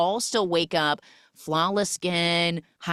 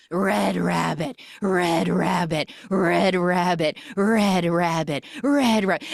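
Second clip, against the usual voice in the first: mock scream; 2 semitones higher, 3 dB louder than usual. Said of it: "she starts screaming".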